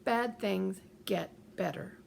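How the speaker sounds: slow, evenly spaced self-talk; measured, deliberate mantra. Shown as a demonstration. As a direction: say it slowly, one word at a time. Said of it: "override it with your self-talk".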